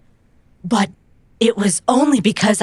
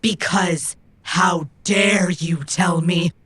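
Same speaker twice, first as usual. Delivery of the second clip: angry shout. Acted. Robot yelling at rival during fight, angry shout. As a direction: yell it mid-punch.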